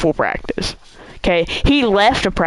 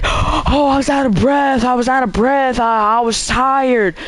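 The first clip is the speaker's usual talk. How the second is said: higher, hammed-up whining teammate; mock whiny excuse; 4 semitones higher than usual. Kid mimics teammates' whiny excuses about being winded. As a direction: whine the excuse like a lazy kid. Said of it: "some of them would be like".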